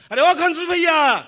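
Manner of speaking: stretched-out loud call for Ghansu; calling out loudly. Retold or imitated. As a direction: hail him from outside his door. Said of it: "मैं जोर से चिल्लाया".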